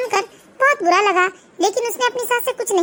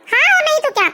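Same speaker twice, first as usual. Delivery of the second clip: indignant; 5 semitones higher, 3 dB louder than usual. Acted. Mother-in-law gossiping on phone.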